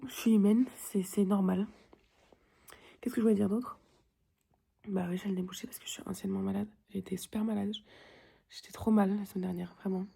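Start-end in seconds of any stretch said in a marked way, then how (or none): 5.4-6.7 whispering. Real, not acted. Whispered explanation.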